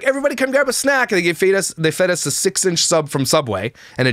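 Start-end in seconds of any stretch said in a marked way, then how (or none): 0.0-1.1 high, sing-song staff announcement; mock airline staff. Airline staff calling stranded passengers to grab a snack, high and sing-song. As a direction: mimic the staff cheerily calling everyone over. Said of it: "And they're like".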